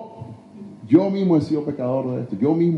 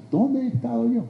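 higher, sharper restatement of the question; preacher pressing the congregation with a higher challenge; pointed repeat; 7 semitones higher than usual. Acted. Preacher to congregation, a higher pointed challenge. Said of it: "preacher repeats the question".

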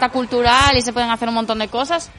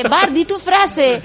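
slow, loud, higher cartoon teacher; Simpsons teacher voice; 6 semitones higher, 5 dB louder, much slower than usual. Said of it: "en el capítulo Simpson".

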